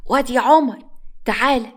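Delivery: calling out. Acted. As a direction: call the boy over from afar. Grandmother calls grandson in street. (جدة تنادي حفيدها في الشارع بصوت عالي)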